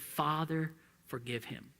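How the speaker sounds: soft and low, almost to himself; under his breath. Shown as a demonstration. Preacher murmuring Jesus' prayer under his breath, quiet. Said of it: "didn't say that under his breath".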